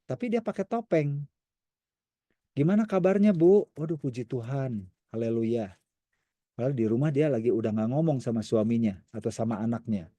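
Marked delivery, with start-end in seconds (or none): 2.5-3.7 higher, louder bright church greeting; cheery greeting. Retold or imitated. Church member greeting a lady, bright cheerful. 3.7-5.7 pious reply. Retold or imitated.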